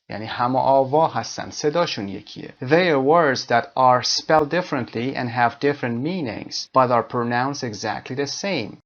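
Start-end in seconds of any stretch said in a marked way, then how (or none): 2.6-8.8 slow, careful definition read. Shown as a demonstration. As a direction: read the definition slowly for learners. Reads definition slowly.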